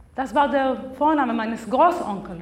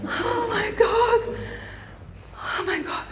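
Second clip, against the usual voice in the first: 1 awed hush; 7 semitones higher, 6 dB quieter than usual. Acted. Großmutter erkennt Enkelin.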